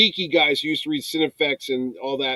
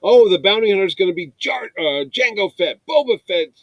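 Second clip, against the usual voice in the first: mock fan pleasing; 5 semitones higher, 4 dB louder than usual. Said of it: "they tried to do the fan please everything".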